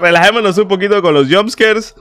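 ordinary delivery

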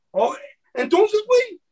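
gotcha, with a crying laugh at the end; retold triumphant jab. Catching a slur user whose mother is Mexican, high mock yell.

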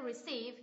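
"receive" as re-CEIVE; teacher's model of "receive", weight on CEIVE; stress on second syllable. Shown as a demonstration. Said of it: "nhấn tiết thứ hai".

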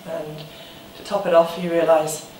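low, soft, halting confession; subdued heartbreak. Acted. Ex admitting the other has moved on, subdued heartbreak. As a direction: let it sink quietly, with long pauses.

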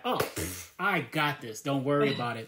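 casual, dismissive reassurance; breezy confidence. Acted. Salesman to a client despite private doubts, breezily confident. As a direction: brush off any doubt like a sure salesman.

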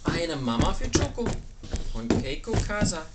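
put-on measured storybook reading to a child; picture-book reading. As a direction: read the title out carefully to a little one. Reads the book's title and dedication.

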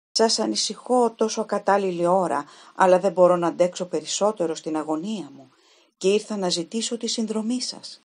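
urgent, pleading for the detective's help; anxious young woman. Acted. Distressed young woman begs the detective for help, urgently.

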